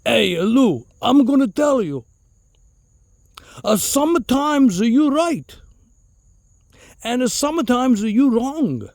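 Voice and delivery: put-on flustered uncle with an Italian accent, slow and emphatic; high, slow mock Italian-accent lecture; Uncle Mario. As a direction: imitate an exasperated Italian uncle spelling it out. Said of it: "he was really flustered, and he goes".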